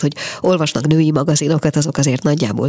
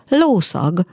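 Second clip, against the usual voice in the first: triumphant; 3 semitones higher than usual. Acted. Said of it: "mondta diadalmasan".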